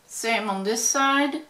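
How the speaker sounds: lips shut, words muffled; talking with mouth closed. Real, not acted. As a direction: speak without opening the mouth. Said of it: "'cause my mouth is closed".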